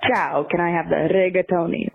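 Italian ciao and rolled R in rigatoni; light Italian accent, trilling rigatoni. Shown as a demonstration. Caller trying to order like a local, Italian accent. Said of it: "in the accent of where you are".

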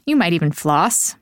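polished podcast sponsor read with lifted phrase openings; scripted ad read. Real, not acted. Host selling teeth whitening to listeners, scripted ad read. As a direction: pitch the product smoothly from copy.

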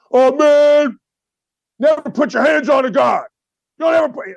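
high, loud mock whine of a sensitive ex-player; mocking whiny player. Host mocking an ex-player's complaint, loud whine. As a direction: ham up a thin-skinned ex-player yelling.

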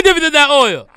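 hammed-up revival line dissolving in laughter; laughing mock preaching. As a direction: let the laugh break the sermon.

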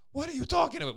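very high little-kid cartoon line; toddler's catchphrase. Dad imitating his son's high catchphrase reply. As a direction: pipe it up like a cheeky toddler. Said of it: "Ben is just".

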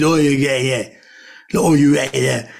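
words blurred into loose "oi, yeah" sounds; garbled sheep-hears-it version. Shown as a demonstration. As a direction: mush the line into half-words the way a sheep would hear it. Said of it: "you have to say it the way a sheep hears it".

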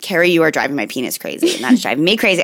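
flat robotic monotone, no expression. Retold or imitated. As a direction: recite it like a child repeating by rote. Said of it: "he just said kind of robotically".

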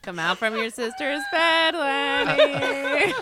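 coaxing call through laughter; laughing call. Pretend. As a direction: call him out while laughing. Calling to the imagined boy.

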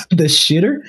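shitter with a rising question; amused disbelief. Real, not acted. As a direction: rise on shitter in amused surprise.

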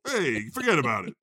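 a hint of a New York mobster accent; mock accent. Host plays along with the accents, light New York wiseguy. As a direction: toss it off like a wiseguy. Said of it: "Why are we doing accents?".

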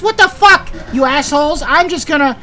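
high-pitched, shouting angry little kobold; angry kobold accent. Acted. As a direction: yell at the intruders in a high, furious squeak. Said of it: "high-pitched, angry accent".

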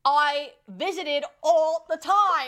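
loud, slow, high mock Irish; hammed-up Irish accent, drawn out; bad fake Irish accent. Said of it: "These accents right now".

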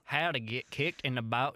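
demonstrating a Southern accent. Shown as a demonstration. Co-host shows host how to read the post, Southern accent. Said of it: "read this in a southern accent".

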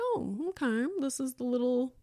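mildly awkward, matter-of-fact greeting; retold matter-of-fact reaction. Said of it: "very matter-of-fact situation".

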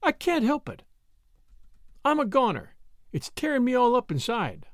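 high-pitched woman's voice, helpless and torn; Brett, tormented. Acted.

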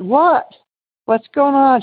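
retold shock at hearing the news. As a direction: react in disbelief to sudden bad news. Hearing friend is dead.

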